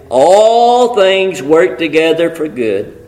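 "All" held long, the phrase slowed; the verse read out with weight on all; stress on all. Shown as a demonstration. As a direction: land heavily on "All". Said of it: "I really need to put the emphasis on all".

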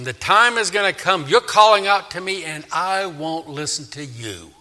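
firm prophetic warning that drops at the end. Acted. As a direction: warn them of what is coming. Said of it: "And he warns them".

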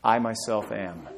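quiet, slow and hushed; a gentle hushed answer; soft reveal. Shown as a demonstration. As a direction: let it land softly, slowly. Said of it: "can you guess what it is?".

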